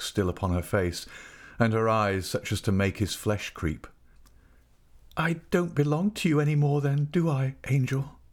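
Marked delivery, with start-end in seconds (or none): 5.2-8.2 higher-pitched, helpless question; understated helpless appeal. A narrator's reading. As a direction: ask it as if lost, voice lifted. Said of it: "she asked helplessly".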